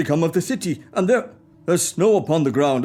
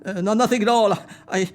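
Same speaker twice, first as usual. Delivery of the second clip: holding back tears; 5 semitones lower than usual. Acted. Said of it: "what is that on your cheek".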